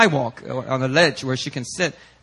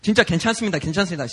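put-on sobered-up girl; 4 semitones higher, much faster than usual. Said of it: "she starts saying".

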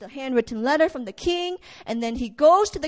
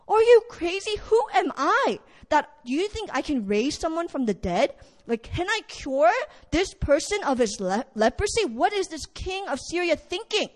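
panicked king; 4 semitones higher than usual. Acted. King tears robe in despair.

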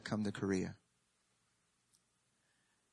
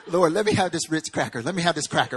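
mock begging; 5 semitones higher, 10 dB louder than usual. Begging God for a cracker.

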